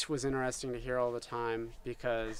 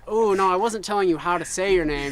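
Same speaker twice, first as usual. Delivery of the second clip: louder, hurried apology about her name; flustered explaining; 4 semitones higher, 6 dB louder than usual. Retold or imitated. To the customer, over-eager apology, louder. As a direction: rush to explain you meant no offence. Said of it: "I was like".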